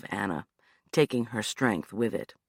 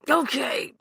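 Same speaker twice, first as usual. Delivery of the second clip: panting; 12 semitones higher than usual. Acted. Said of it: "he panted".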